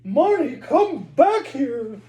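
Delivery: loud, high, slow frantic call; screaming mother. Acted. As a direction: scream for your child to come back. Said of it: "screamed the little girl's mother".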